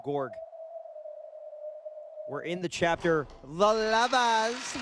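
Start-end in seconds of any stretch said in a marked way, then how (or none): 3.4-4.8 breathy vintage purr. Pretend. Reads chapter title in purring voice.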